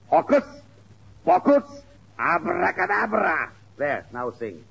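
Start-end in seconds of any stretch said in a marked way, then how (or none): 0.1-3.5 magic incantation. Acted. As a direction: cast the spell with a flourish. Pirate casts a magic spell.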